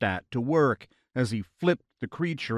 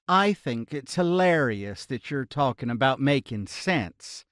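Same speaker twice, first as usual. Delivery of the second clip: southern twang. Acted. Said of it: "scoffed good-naturedly in her normal accent, which held a distinct southern twang".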